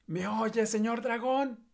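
high, slow full-force yell; shouting with all her strength. Acted. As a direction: yell right into his ear. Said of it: "gritó con todas sus fuerzas". (gritando con todas sus fuerzas)

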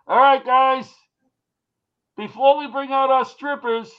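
loud mic announcer voice; emcee announcement. Retold or imitated. Emcee hyping strippers to drunk guests, loud.

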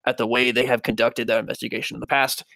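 lightly spooky, measured letter reading. Acted. Podcaster reading the Axeman's letter aloud, spooky voice. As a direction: read it as a mildly eerie demon killer. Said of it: "read this in a spooky voice".

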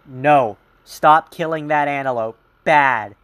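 firm mock telling-off of a lion, loud; mock scolding a lion.

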